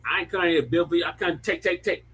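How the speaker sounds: mock West African accent, quick and high; playful African accent impression, fast. Shown as a demonstration. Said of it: "how do you say it in the African accent".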